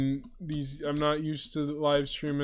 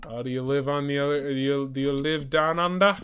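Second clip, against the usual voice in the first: quick, lightly faked Australian accent; half-hearted Australian accent asking a viewer; bad Australian accent; 4 dB louder than usual. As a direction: try a rough joking Australian accent. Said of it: "that was probably a horrible accent".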